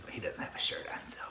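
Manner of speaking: fast whisper, half to herself; whispered aside. Real, not acted. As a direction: slip the remark in under your breath, quickly. Aside about son in background.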